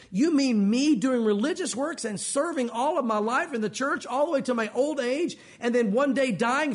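acted disbelief, rising at the question ends; incredulous questioning. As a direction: question it as if you can't believe it. Acts out a shocked churchgoer questioning Jesus.

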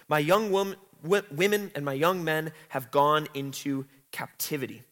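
measured, solemn reading of scripture. Acted. Teacher reading scripture to the class, solemn. Reads Lamentations scripture aloud.

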